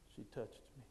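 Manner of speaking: very soft, low imitated confession; quiet, shy boy. Shy student explains to teacher, quiet and bashful. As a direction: barely let it out, soft and low. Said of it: "Real quietly".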